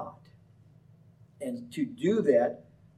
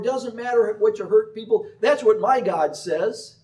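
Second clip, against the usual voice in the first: higher, louder slick pitch; false prophet's sales pitch; 6 semitones higher, 4 dB louder than usual. Retold or imitated. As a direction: sell sin like a smooth huckster.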